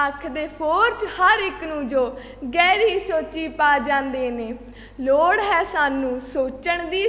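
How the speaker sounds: rhythmic stage recital with a recurring refrain; poem recitation. Acted. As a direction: recite in measured lines, pausing after each. Recites own poem at a contest. (ਲੈਅ ਵਿੱਚ ਕਵਿਤਾ ਉਚਾਰਨ)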